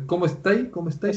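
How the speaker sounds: casual Chilean question, ending lifted; Chilean lilt rising on "estáis"; Chilean rising intonation. Shown as a demonstration. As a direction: raise the last syllable like a Chilean. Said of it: "en Chile subimos".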